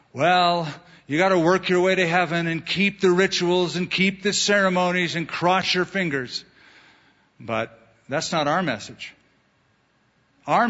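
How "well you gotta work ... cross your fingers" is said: mock legalist. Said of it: "The legalist message is".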